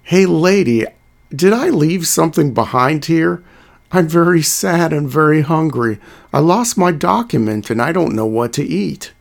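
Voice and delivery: lightly voiced pleading coyote; a hint of a hungry, begging coyote; trickster tale voices. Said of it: "The coyote said".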